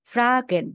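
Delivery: "ফ্রাকেন" with the R after F sounded. Shown as a demonstration. Teacher sorting German R words for student, R sounded. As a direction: pronounce the R clearly in "ফ্রাকেন". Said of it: "এখানে আরটা উচ্চারণ হচ্ছে".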